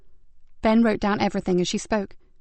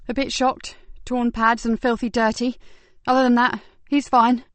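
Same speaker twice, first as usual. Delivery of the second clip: a slightly higher, brighter officer's voice; lightly voiced young constable; 3 semitones higher than usual. Constable tells Ben the dog has been found, lightly voiced. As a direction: deliver good news eagerly.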